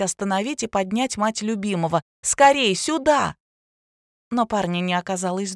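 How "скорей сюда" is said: loud, high cry for help; girl shouting for help as the mother collapses; urgent call. A narrator's reading. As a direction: yell for him to hurry.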